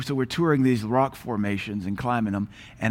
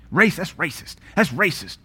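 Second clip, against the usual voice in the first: mocking whine; 4 semitones higher than usual. Mocking people who cry racism.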